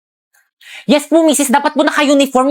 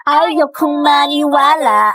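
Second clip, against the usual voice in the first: slow, drawn-out soap opera line; madramang linya; 3 semitones higher, much slower than usual. Shown as a demonstration. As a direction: deliver it like a teleserye heroine. (madramang pagbigkas ng linya)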